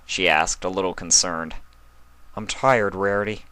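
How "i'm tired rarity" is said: flat. Acted. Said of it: "he said flatly".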